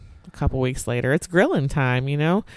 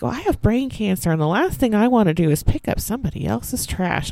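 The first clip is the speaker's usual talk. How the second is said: high, snippy neighbor imitation; mocking the neighbor; 5 semitones higher than usual. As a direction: throw a guilt trip like the neighbor. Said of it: "She's like".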